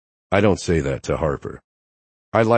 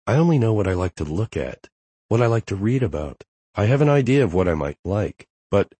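lightly higher woman's voice; playful young woman, slightly raised pitch; Harper; 4 semitones higher than usual. Acted. Harper voiced by male narrator.

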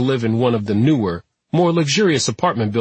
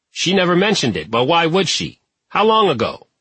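higher-pitched, puzzled superintendent; superintendent, surprised; 7 semitones higher than usual. A narrator's reading. Superintendent questioning detectives about his vanished tenant, surprised.

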